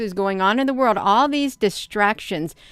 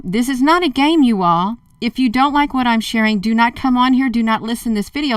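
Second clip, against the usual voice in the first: firm warning; 3 semitones higher, 5 dB louder than usual. Real, not acted. Warning critics off.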